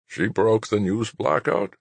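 high, slow disbelief; incredulous. Acted. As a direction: let the disbelief rise slowly. Old general incredulous.

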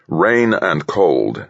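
slow, mild growl. Acted. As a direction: grumble it out slowly. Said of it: "Golden growled".

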